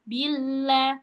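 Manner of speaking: "Bila" held on the l at an even pitch. Shown as a demonstration. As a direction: press the l in "Bila" without lifting the voice. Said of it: "nggak sampai yang naik suaranya".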